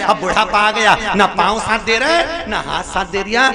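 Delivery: preacher mimicking a complaining elder; mock old man lament. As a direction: moan about ageing, teasing.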